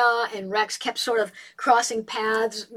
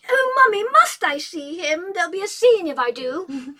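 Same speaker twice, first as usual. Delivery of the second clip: pleading daughter; 8 semitones higher, 6 dB louder than usual. Acted. Julia pleads with her mother not to see Rex, high whine.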